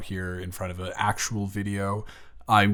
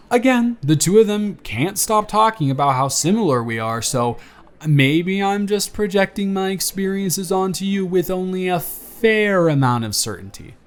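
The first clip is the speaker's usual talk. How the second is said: put-on friendly, teasing young man on a first date, livelier and louder than the intro; charming blind date; 7 semitones higher, 9 dB louder than usual.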